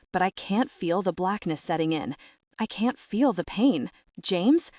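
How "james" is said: yelling. Acted. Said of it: "I yell".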